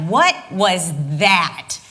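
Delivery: very slow, pointed question; measured mock confrontation; confronting. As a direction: demand an explanation. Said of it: "I say to him".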